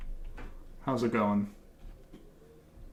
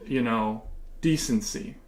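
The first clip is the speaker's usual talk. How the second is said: mock patriotic pandering. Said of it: "I'm gonna keep talking like this".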